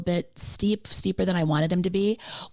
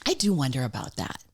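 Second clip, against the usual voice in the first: whispered; 4 semitones lower than usual. Real, not acted. Joking about confession.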